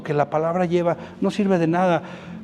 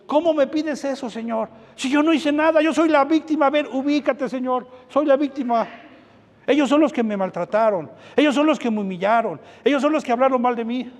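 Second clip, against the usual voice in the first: whiny indignant complaint; 5 semitones higher than usual. Retold or imitated. Retells complaining to God as victim.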